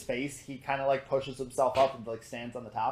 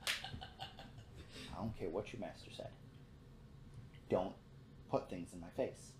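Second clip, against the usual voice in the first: slow, whispered threat; whispered warning not to poke him; menacing whisper; 4 semitones lower, 15 dB quieter than usual. Acted. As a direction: hiss a warning low and slow. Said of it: "and goes".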